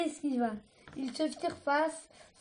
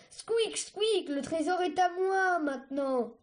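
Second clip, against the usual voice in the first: gloating scavenger; 4 semitones higher than usual. Acted. Scavenger gloating over treasure.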